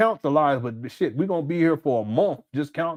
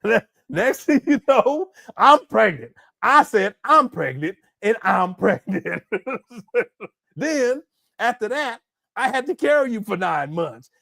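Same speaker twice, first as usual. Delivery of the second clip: lightly voiced mocking impression of the father, a bit higher; mock Umar voice; 4 semitones higher than usual. Host mocks the absent father's excuses, in a light mock voice. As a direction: play the lying dad bragging, half-hammed. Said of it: "Umar gonna be up here talking about".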